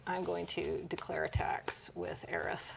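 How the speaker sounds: slow hushed whisper. Acted. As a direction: whisper the attack like a secret. Announcing an attack, playful whisper.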